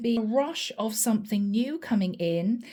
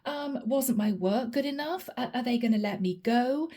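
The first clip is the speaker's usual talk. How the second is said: panicking. Retold or imitated. Pisces panicking over an HR email, whispered alarm. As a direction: whisper your panic, then fret. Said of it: "this is you panicking".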